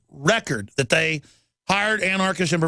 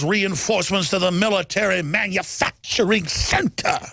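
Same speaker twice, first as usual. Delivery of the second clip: imitating Khalid Muhammad; 3 semitones higher than usual. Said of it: "I can almost do a perfect imitation".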